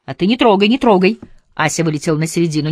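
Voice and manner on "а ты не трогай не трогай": angry shout. A narrator's reading. Quarrel between the women.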